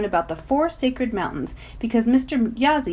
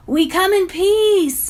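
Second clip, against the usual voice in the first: calm; 11 semitones higher, 6 dB louder, slower than usual. A narrator's reading. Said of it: "Davey says calmly".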